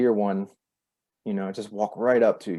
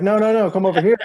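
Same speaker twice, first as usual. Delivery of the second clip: high, louder eager summons; imitated urgent insistence; 11 semitones higher, 5 dB louder, faster than usual. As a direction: act out a friend insisting they come. Retelling friend insisting they come over.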